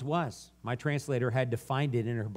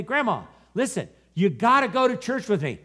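acted-out granddaughter pleading, high and loud; mock insistent nagging; 7 semitones higher, 5 dB louder than usual. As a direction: urge grandma, pitched well up.

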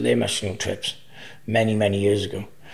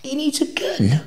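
a shocked high whisper. Retold or imitated. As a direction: whisper it in disbelief. Shocked reaction retold to friend.

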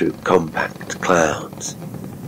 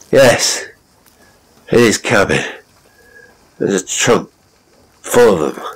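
put-on loud drunken rambling; drunken captain; 4 dB louder than usual. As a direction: slur it out like a drunk.

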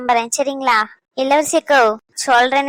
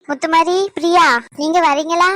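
raised, higher voice calling across the house; 4 semitones higher, 5 dB louder than usual. Acted. Aunt calls Muthumari and Priya to leave, calling out loud. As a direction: call out to them as you leave.

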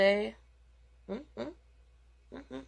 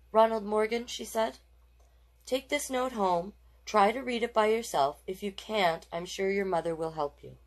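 higher teacher voice, gently encouraging; kind teacher; 4 semitones higher than usual. Acted. Missus Tyler handing Ronald a note, kind teacher voice. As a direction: speak like a patient teacher.

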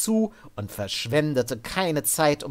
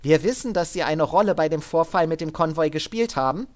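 higher, firm but controlled order; armored soldier woman; 5 semitones higher, 4 dB louder, faster than usual. Acted. Sid ordering Devin up at gunpoint, higher and firm. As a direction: keep him steady with a calm threat. Sid's voice.

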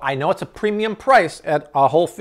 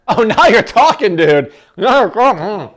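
laughing, loud and high with delight; delighted exclamation; 7 semitones higher, 10 dB louder than usual. Real, not acted. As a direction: cheer it like a great first bite. First bite with milk, delighted.

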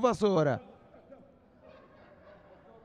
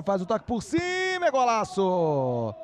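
excited build-up; 2 semitones higher, slower than usual. Real, not acted. Rising call as goal scored.

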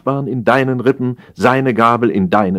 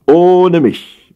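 firm refusal; 8 semitones higher, 7 dB louder than usual. Acted. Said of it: "widersprach Jossele".

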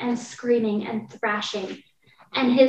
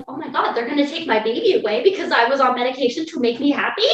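panicked disbelief; 3 semitones higher, 6 dB louder, faster than usual. Retold or imitated. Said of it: "And I'm like".

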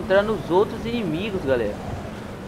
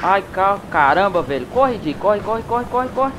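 being chased. Real, not acted. Ainda fugindo do bicho.

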